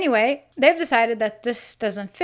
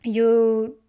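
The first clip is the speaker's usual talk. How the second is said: pissed-off accusation; 7 dB louder than usual. Retold or imitated. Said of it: "he's pissed".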